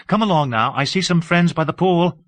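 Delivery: a light, amused woman's voice; Delilah, lightly teasing. Acted. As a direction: tease him gently as Delilah.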